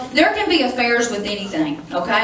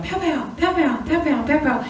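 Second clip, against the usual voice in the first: higher playful pow sounds, mildly voiced; grandkids playing; 6 semitones higher than usual. Grandma imitating grandkids playing beside grandpa, lightly higher. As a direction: lightly mimic kids' pretend gunfire. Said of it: "the grandkids are going".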